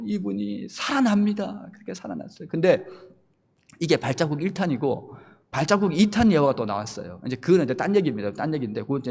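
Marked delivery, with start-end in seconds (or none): none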